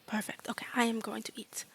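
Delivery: soft, careful broken-English fairy; small fairy settling on a plan; agreeable fairy student. Acted. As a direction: agree earnestly, then trail off quietly.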